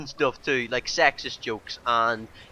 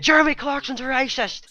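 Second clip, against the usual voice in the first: high, raised-voice accusation; mock scandalised headline; 10 semitones higher, 4 dB louder than usual. Voicing outraged front pages about a presenter, scandalised. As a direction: proclaim it like a screaming headline.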